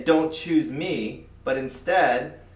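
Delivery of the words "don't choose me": nervous plea. Acted. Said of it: "Robbie meant to say".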